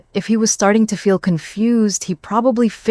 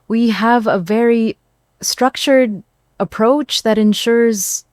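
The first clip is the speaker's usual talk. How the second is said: slurred speech; 5 semitones higher, 3 dB louder, slower than usual. Acted. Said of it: "his words were noticeably slurred".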